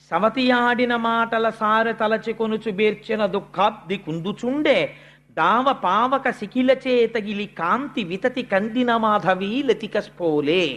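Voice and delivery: slow, measured verse recitation; poem recitation. Acted. Suniti's grieving verse recited to the listeners, slow and measured. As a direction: chant the padyam steadily, line by line.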